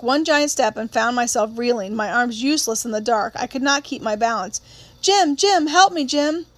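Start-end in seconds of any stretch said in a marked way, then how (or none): 5.0-6.5 much higher, louder desperate plea; panicked cry for help. Acted. Girl tangled in her costume begging her brother, panicked cry. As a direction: cry out for your brother in terror.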